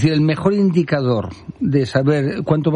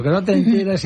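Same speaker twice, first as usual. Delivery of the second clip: mild mock yell, higher pitch; grito imitado; 6 semitones higher than usual. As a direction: lightly imitate the heckler's cry. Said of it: "alguien dijo gritando". (imitación leve de un grito, en tono más agudo)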